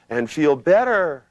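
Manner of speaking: the way not to say "And feel better"; wrong weak delivery. Shown as a demonstration. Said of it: "Don't go".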